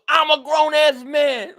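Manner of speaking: fake-sob the line while cracking up; mock crying. Mocking a crying fan, hammed-up laughing sob. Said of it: "he was crying, crying".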